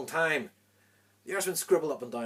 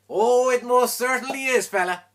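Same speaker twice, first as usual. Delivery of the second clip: high, loud and slow crowing; gleeful shouted retort; triumphant shout; 11 semitones higher, 14 dB louder, slower than usual. Acted. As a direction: stretch it out loud, savouring the win. Irishman's triumphant reply.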